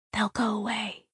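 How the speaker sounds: breathy unvoiced hush; whisper. A narrator's reading. The voice hiding the girl from monsters, whisper. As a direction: whisper so they won't hear. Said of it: "the voice said in a whisper".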